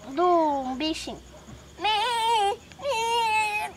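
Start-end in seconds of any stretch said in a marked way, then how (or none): 1.8-3.7 sheep bleat. Pretend. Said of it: "como que é o barulho do bichinho".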